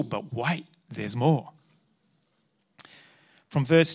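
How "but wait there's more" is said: lightly voiced infomercial announcer; a hint of a hammed-up TV salesman; TV ad pitchman. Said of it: "in the words of the famous Demtel T V commercial".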